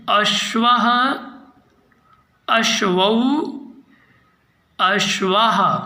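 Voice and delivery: drawn-out अश्वः, then अश्वौ and अश्वाः; recitation drill. Shown as a demonstration. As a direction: chant the forms slowly for repetition. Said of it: "फिर से एक बार पुनः अभ्यास करेंगे".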